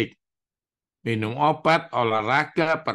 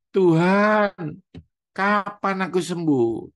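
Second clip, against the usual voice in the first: a raised, pleading cry upward, louder and higher; crying out to God; 6 semitones higher, 4 dB louder, slower than usual. Retold or imitated. Paralyzed preacher crying out to God, loud pleading. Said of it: "saya nangis".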